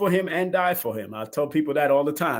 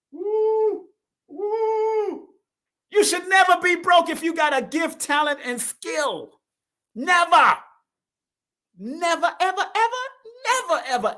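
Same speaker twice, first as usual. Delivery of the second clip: excited whooping; 13 semitones higher, slower than usual. Real, not acted. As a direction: fire up the audience. Hyping up the live audience.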